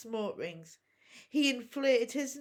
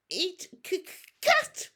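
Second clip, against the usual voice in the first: very high, loud, stammering little dragon hiss; hissed dragon demand; 11 semitones higher, 5 dB louder than usual. A narrator's reading. Little dragon hissing at Hiccup for fish. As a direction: hiss it out like a tiny greedy dragon.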